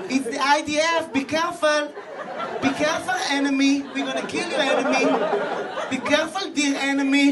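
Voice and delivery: cheery polite threat, leaning on enemy; mock friendly warning. Army politely warns the enemy it will kill him, cheery. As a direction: sweetly warn the dear enemy.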